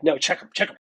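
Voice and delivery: urgent repeated nudge, mildly acted; urgent insistence. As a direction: retell it pressing them to look right now. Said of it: "the same urgency".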